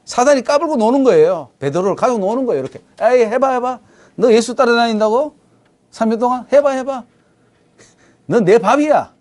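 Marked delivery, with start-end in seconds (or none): 3.0-9.1 goading, teasing sing-song taunt, a bit higher; taunting Satan. Retold or imitated. Satan goading Peter, teasing and jeering. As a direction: egg him on like a jeering tempter. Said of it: "사단이 그러죠".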